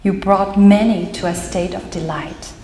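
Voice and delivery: measured verse recital, pausing between lines; deliberate poetry-reading cadence; poem reading. Acted. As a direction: read it out as a poem, phrase by phrase. Reads own poem aloud.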